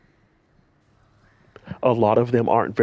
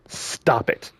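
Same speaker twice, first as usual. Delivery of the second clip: whispered plea. Real, not acted. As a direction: drop to a whisper on "Stop it.". Repeating a plea to harassers.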